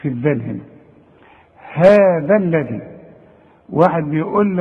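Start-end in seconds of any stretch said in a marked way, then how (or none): 1.7-2.8 slow "هذا الذي", both dhals interdental; tongue-out dhal. Shown as a demonstration. Teacher shows where the tongue goes, careful slow recitation. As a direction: stretch "هذا" and voice the "th" clearly. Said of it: "واطلع لساني".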